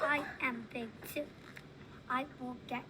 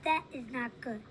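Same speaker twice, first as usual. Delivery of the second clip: mild mad voice; 4 dB louder than usual. Acted. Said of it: "make your voice sound like that".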